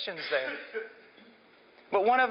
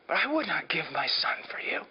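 whispered, low and intense; a whispered confession to the crowd; hushed whisper; 4 semitones lower than usual. Acted. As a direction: drop to a breathy whisper for weight. Intense sermon climax, hushed.

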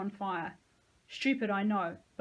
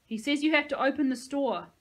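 louder, higher call; shouting through the gate; 6 semitones higher, 7 dB louder than usual. A narrator's reading. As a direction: pass on the threat. Hostage shouting over gate.

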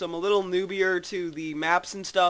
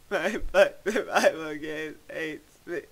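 laughing. Real, not acted. Repeats complaint laughing.

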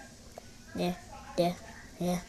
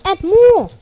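high, loud "add more"; loud, pitched-up urging; insistent demand; 6 semitones higher, 8 dB louder than usual. Real, not acted. Demand escalates.

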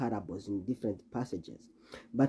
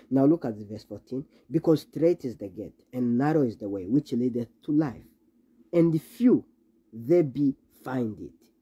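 scripture reading. Acted. Preacher reading scripture aloud.

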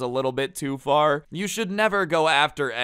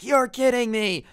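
shocked disbelief; 11 semitones higher, 5 dB louder than usual. Retold or imitated. Jared stunned as teacher denies.

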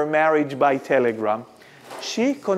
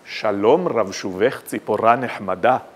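majestic Sephardi Hebrew, much lower, stress on final syllables; Sephardi accent; 8 semitones lower than usual. Shown as a demonstration. Speaker recites the national poet's verse for contrast, majestic Sephardi accent. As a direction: intone it grandly in a deep Sephardi accent. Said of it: "if I recite it in the Sephardi accent".

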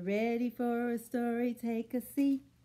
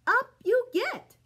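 much higher, louder cheery horse; cheerful horse; 11 semitones higher, 7 dB louder than usual. Acted. Horse welcomes the animals aboard, high and loud. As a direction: call it out like a jolly horse. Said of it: "says Mister Horse".

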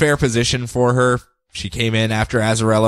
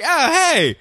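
mock cheering praise; 7 semitones higher than usual.

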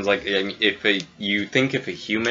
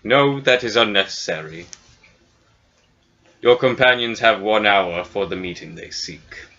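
cloud giant thane. Acted.

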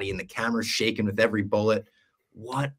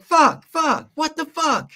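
very high-pitched, exasperated yelp; mock frantic outburst; 6 dB louder, slower than usual. Podcaster acts out Penguin robbed of his win, high mock-frantic. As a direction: imitate a panicked man squealing curses.

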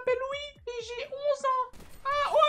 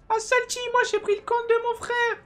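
much higher, louder put-on voice breaking into laughter; high troll voice; 8 dB louder than usual. Bragging about his brother's account to teammates, high put-on voice. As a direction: boast like a fake kid, cracking up. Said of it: "J'ai vraiment une voix de pédé".

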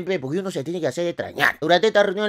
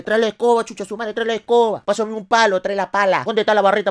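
órdenes atropelladas en tono agudo; borrachos envalentonados; 4 semitones higher than usual. Acted. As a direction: manda como turba borracha lista para la pelea. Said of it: "todo el mundo se puso valiente". (imitación agitada de borrachos envalentonados)

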